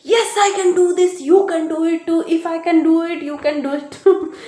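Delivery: rally the crowd like a self-help guru; motivational speaker. Shown as a demonstration. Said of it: "Why I'm just sounding like a motivational speaker?".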